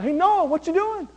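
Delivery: high-pitched, curious hail; nosy passer-by. Acted. Passer-by asking Noah about his work, playful nosy hail.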